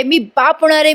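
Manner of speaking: acted cry of joy from a father-to-be; mock excited shouting. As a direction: proclaim it with glee, without real volume. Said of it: "असं म्हणून मोठ्या मोठ्याने ओरडायला लागतो".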